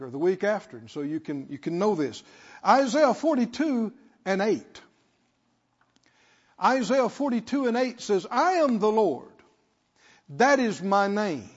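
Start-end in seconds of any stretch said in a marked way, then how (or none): 2.6-11.5 deliberate, weighty preacher reading; measured scripture reading. Real, not acted. Preacher reads Isaiah to congregation, measured scripture reading. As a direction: give each phrase of the verse room.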